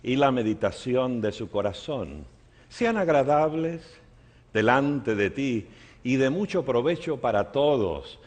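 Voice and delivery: measured, phrase-by-phrase public prayer; solemn address to God; spoken prayer. Real, not acted. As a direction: pray aloud with pauses between phrases. Opens with a formal prayer.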